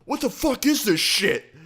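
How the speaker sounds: high-pitched mock shriek; hammed-up squeal of outrage; mock girly scream. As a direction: imitate a panicked, girlish screamer. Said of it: "he starts screaming like a little fucking girl".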